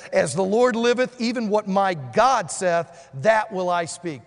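loud, slow, firm vow; bold declaration. Retold or imitated. Preacher voicing Micaiah's vow to the king, loud and slow. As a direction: declare it like a prophet who won't bend.

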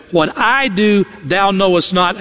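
"I" and "thou" picked out firmly; stress on I and THOU. Shown as a demonstration. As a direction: lean on "I", then on "thou". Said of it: "emphasis on I and thou".

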